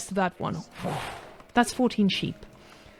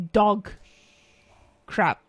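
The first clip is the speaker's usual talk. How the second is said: dog punched out loud, crap dropped low; blurted swear; 3 semitones lower, 4 dB louder than usual. Acted. Caster blurting the swear to chat before checking himself. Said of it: "I don't know if I should swear".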